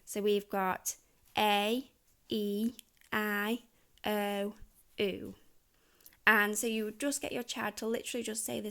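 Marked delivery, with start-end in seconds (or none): 1.4-5.4 long vowel sounds modelled one by one; set two sounds. Shown as a demonstration. Teacher models set two sounds. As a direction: model each sound slowly. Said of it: "our set two sounds".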